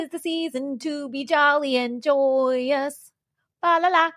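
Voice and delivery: high, slow Kermit the Frog voice; sing-song it like Kermit; Kermit impression. Offering a festive line in a Kermit the Frog voice. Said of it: "Could I do a Kermit".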